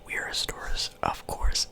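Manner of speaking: whispering while chewing gum. Real, not acted. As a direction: talk around a wad of gum. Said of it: "sorry, I'm chewing gum".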